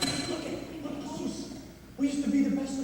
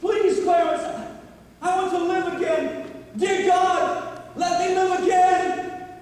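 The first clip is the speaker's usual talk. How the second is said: slow, loud pleading cry to God; shouted prayer, close to breaking; desperate prayer; 2 semitones higher, 3 dB louder, slower than usual. Acted. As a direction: beg God for your life back.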